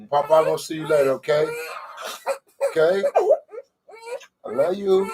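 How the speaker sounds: lightly sing-song parting words to a little one; tender goodbye. Real, not acted. Saying goodbye to his baby.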